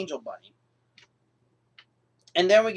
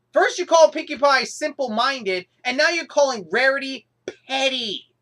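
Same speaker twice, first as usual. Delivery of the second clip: retold anger; 4 semitones higher, 3 dB louder than usual. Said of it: "That line got me angry".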